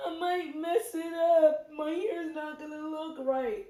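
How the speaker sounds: mother voices her anxious daughter with a high whine; daughter's whine. Retold or imitated. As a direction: plead like a worried little girl.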